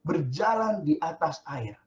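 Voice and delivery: eager call. Acted. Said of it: "berseru dan menjawab dia".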